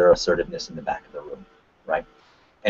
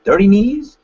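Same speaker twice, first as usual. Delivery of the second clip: mocking bully jeer; 11 semitones higher, 6 dB louder, slower than usual. Bullies taunting him as a kid.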